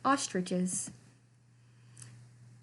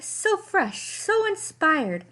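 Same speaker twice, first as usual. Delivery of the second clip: crying clowns; 8 semitones higher, slower than usual. A narrator's reading. Clowns raving over the sweater pile, high and swooning. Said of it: "they cried".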